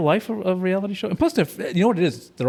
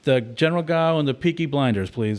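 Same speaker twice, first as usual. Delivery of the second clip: light put-on Irish accent; mock Irish accent. Joking takeout order to friend, lightly faked Irish accent. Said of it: "That's my Irish impression".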